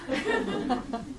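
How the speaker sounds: short high-pitched laugh; a quick amused burst of laughter; real laughter. Real, not acted. Laughs at the policeman's line.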